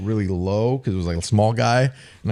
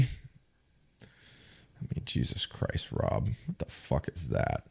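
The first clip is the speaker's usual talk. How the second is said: mock scolding whisper; 6 semitones lower, 13 dB quieter, slower than usual. Imitating Bill scolding.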